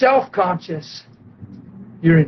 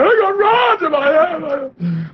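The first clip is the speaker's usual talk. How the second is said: retold complaint; 8 semitones higher, much slower than usual. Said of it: "He's going".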